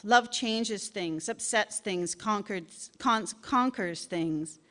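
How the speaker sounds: slow, weighty delivery of Love; slow emphatic. Acted. Preaching the ad's message, slow and emphatic. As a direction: lean hard on each word.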